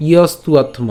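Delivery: ইয়স্তুয়াত্ম as one joined word; said together. Shown as a demonstration. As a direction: run ইয়স্তুয়াত্ম together, v sounding like u. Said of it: "একসাথে উচ্চারণ করবো".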